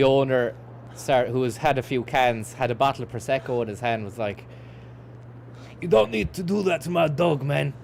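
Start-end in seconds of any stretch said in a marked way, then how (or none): 5.8-7.7 put-on half-Cockney mixed accent, higher and raised. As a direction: mimic a drunk dog owner in a half-Cockney accent. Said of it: "a combination accent".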